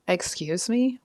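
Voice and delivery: affronted questioning, at ordinary pitch; attitude. Acted. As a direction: challenge them with a touch of attitude. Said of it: "I'm catching an attitude".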